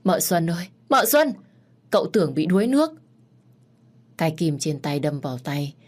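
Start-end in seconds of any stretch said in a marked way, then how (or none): 0.0-0.7 calling Mợ Xuân ơi across the yard, only slightly raised. Acted. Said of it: "dì Năm hét lớn". 0.9-1.3 high, loud panicked yell of mợ Xuân; shouting. Acted. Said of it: "dì Năm hét lớn". 1.9-2.9 fast, louder urgent cry; alarmed shout. Acted. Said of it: "dì Năm hét lớn".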